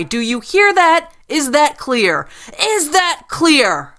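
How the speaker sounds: loud, high, unhinged yelling; furious threats. A narrator's reading. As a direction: bark orders like a manic gunwoman. Armed woman threatens customers.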